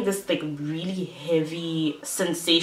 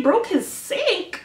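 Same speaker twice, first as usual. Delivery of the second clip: high, slow, stunned question; incredulous; 13 semitones higher, much slower than usual. Retold or imitated. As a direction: drag it out in disbelief. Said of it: "And I'm like".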